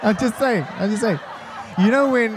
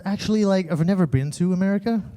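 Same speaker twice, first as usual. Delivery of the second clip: imitating a put-on American accent; casual mock-American girl voice; fake American accent. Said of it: "Why do you sound like that".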